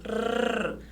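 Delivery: sustained tongue trill "Rrr"; trembling R. Shown as a demonstration. Teacher showing the sound that trembled, soft trill. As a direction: roll the R alone, softly.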